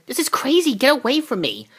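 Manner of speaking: put-on scared girl backing off; panicky teen. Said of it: "Cassie saying".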